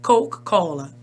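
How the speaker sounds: American-accented English Coca-Cola. Shown as a demonstration. Showing how to order the drink in English, American accent. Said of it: "o meu sotaque é americano".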